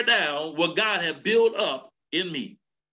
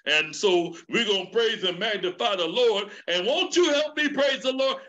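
Elder Bellinger. Retold or imitated. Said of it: "He just gets up there and he".

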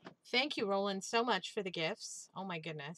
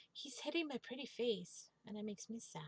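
mock sad whine; 3 semitones higher, 6 dB quieter than usual. Character whines about being hit.

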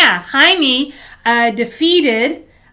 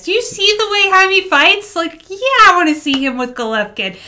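as a fan; 5 semitones higher than usual. Shown as a demonstration. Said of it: "gonna give you as a fan".

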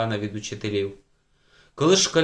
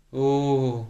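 breaking wail. A narrator's reading. Girl breaking down before the teacher, wail. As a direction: let an "oo" wail escape. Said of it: "прорвалася з горла Анна".

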